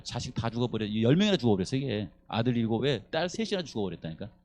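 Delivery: ordinary delivery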